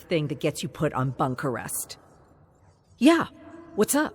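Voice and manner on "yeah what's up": jumps much higher and louder, caught off guard; startled. Acted. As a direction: blurt it out, covering nerves.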